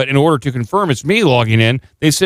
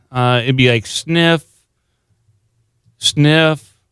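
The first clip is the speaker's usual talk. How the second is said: mock sniffling; 3 semitones higher, much slower than usual. Shown as a demonstration. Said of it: "How do you do sobbing and crying".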